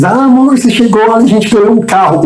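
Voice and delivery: high, bright, excited, delighted tone.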